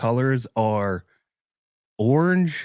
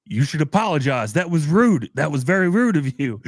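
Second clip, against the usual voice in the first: raised, higher scold for bad manners; scolding dad voice; 5 semitones higher, 4 dB louder than usual. Dad scolds the man who bumped him: raised, scolding voice. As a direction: tell him off loudly, in a mock scold. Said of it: "And he goes".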